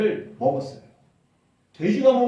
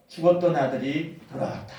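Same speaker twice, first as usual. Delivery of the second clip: tender embrace; 3 semitones lower than usual. Acted. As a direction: murmur it while holding him close. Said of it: "그 아들을 끌어안으면서".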